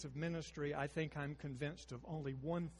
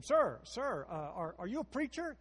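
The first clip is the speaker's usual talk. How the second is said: calling out; 4 semitones higher, 6 dB louder than usual. Retold or imitated. Woman in bed calls out.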